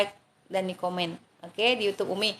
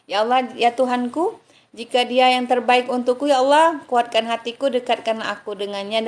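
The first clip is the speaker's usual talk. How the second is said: earnest spoken prayer, slightly raised; prayer recitation. Acted. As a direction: pray it aloud as if before God. Umi recites the prayer again. (doa yang dibacakan dengan khusyuk)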